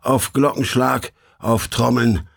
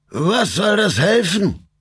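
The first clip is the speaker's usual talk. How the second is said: devil voice; 9 semitones higher, 3 dB louder, slower than usual. A narrator's reading. Devil steps forward, challenges.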